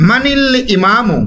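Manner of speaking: মানিল ইমামু slowly, linking মানিল into ইমামু; teacher's slow model reading; slow demonstration. Shown as a demonstration. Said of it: "লামের সাথে মিলিয়ে পড়ব".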